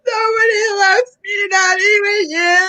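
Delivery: self-pitying wail. Acted. Janice wailing self-pity.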